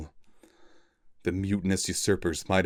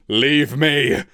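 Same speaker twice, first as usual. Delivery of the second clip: loud, high, fierce command; wounded captain rejecting help, loud and fierce; fierce cry; 7 semitones higher, 7 dB louder than usual. Acted. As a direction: order them away, fiercely. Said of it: "Cloud Wolf cried fiercely".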